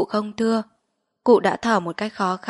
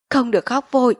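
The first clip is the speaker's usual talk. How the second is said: sharp, higher-pitched order; stern shout; 4 semitones higher, 4 dB louder, faster than usual. A narrator's reading. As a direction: snap an order to hold back tears. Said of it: "Quan huyện trừng mắt quát". (quát nghiêm)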